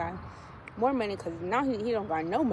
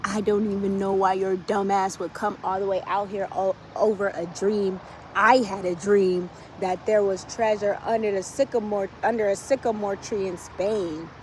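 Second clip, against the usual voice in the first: scoffing thug. Retold or imitated. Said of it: "the guy says".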